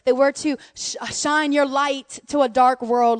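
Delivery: earnest rising prayer voice. Acted. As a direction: pray it out, building in fervour. Pastor leads a prayer.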